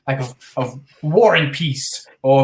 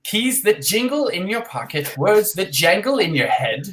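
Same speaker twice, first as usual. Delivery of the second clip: poem recital. Acted. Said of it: "the poem is from a song".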